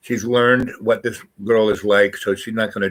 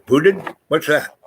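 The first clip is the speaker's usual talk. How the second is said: baffled; 6 semitones higher than usual. Retold or imitated. Girlfriend baffled by "booted.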